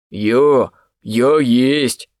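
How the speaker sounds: put-on breathed out with drunken feeling; a sincere drunk confession; mild heartfelt sigh of a drunk; heartfelt exhale. A narrator's reading. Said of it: "проникновенно выдохнул Эрнест".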